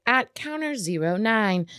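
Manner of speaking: slow, flat robot voice; bored clerk. Retold or imitated. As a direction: announce like a bored machine. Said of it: "little robot voice".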